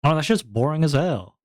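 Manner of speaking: light mock complaint, lifted a little; bored viewers. Streamer as the viewers' proxy, mock complaining. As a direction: play a fed-up audience member. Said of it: "I'm being your proxy right now".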